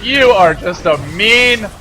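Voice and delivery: loud, high hype yell; excited shout. Real, not acted. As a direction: yell it at the screen. Caster yelling at a play.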